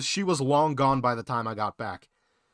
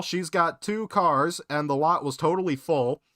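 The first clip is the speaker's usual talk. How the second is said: ordinary delivery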